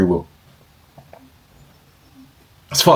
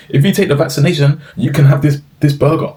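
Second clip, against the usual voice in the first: mock news guy; 5 semitones higher than usual. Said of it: "a video of this guy".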